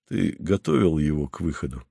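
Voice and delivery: Paul quietly asks Simenon about Mario; quiet question. A narrator's reading. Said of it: "спросил он тихо".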